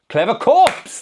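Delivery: high, loud, crazed shout; manic cry. Acted. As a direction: cry it out, grinning insanely. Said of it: "the doctor cried".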